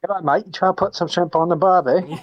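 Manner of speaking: high, hammy mock Australian accent; stereotypical Australian. Player parodying the GM's Australian with a high hammy accent. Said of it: "horribly stereotypical Australian accent".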